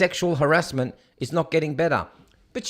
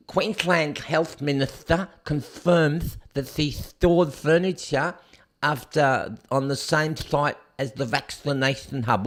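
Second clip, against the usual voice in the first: imitating the minister. Host reads a headline mimicking the Queensland minister, lightly voiced. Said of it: "Why am I speaking like that? 'Cause that's how she talks".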